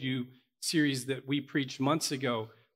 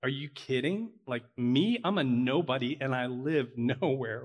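scoffing. Retold or imitated. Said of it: "I may have scoffed".

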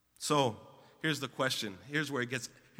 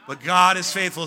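loud reading aloud; 4 semitones higher, 11 dB louder than usual. Real, not acted. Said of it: "Keep reading".

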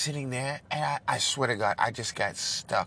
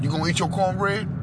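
tough guy impression; 6 semitones higher, faster than usual. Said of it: "remember when Eddie Murphy".

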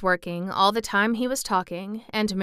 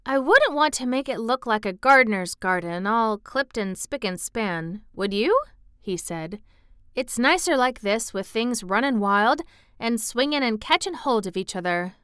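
lightly voiced Yorkshire boy, musing; thoughtful country lad; 3 semitones higher than usual. Boy liking things running wild, thoughtful. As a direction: muse fondly as a country boy.

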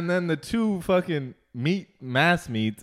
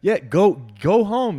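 retold yell; 4 semitones higher, 5 dB louder, slower than usual. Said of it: "You said".

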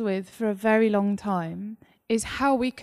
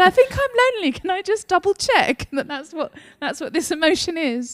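uncertain question; 7 semitones higher, 3 dB louder than usual. Retold or imitated. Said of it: "texted about five people and said".

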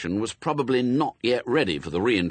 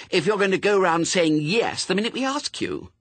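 put-on high, louder child's telling-off; severe; 12 semitones higher, 5 dB louder than usual. A narrator's reading. Pepper lectures the little suspect, severe. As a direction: scold her severely in a high voice. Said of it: "she added severely".

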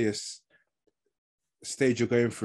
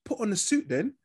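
imitating her; 8 semitones higher than usual. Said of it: "she goes to him".

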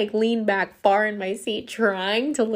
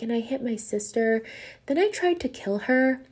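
lightly voiced child, matter-of-fact; nonchalant little girl; 4 semitones higher than usual. Girl confessing to a stranger on a plane, lightly imitated nonchalance. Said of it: "this little girl nonchalantly just tells this".

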